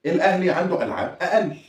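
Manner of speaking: high, far-off mock voice of a rival fan; mocking the rival club's fan. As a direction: lift into a taunting put-on voice. Mocking rival fans' claim.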